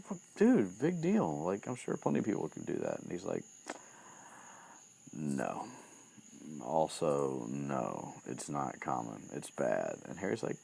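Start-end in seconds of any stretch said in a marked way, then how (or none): 0.0-3.0 mock dismissive. Retold Harry brushing it off. 5.1-10.0 grave correction. Retold or imitated. Retold Ron gravely correcting Harry.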